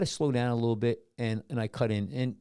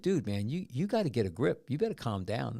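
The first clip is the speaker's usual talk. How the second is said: even, unruffled man-to-man advice; calm retelling. Retold or imitated. Telling an angry driver to get a grip, calmly. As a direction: talk him down without raising your voice. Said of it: "did you say it as calm as that?".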